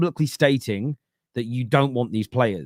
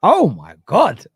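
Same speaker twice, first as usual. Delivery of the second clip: louder, slower mock despair; exasperated dad; 4 semitones higher, 7 dB louder, slower than usual. Dad reacts to his daughter's demands, loud and slow. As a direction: drag out the dismay at his six-year-old. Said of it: "I'm like".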